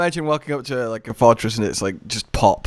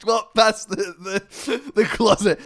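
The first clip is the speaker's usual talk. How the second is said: thirties gangster; 7 semitones higher, slower than usual. Pretend. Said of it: "It was a gangster voice from the thirties".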